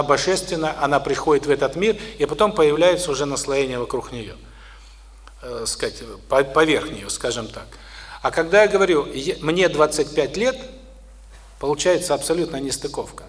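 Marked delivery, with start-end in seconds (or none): none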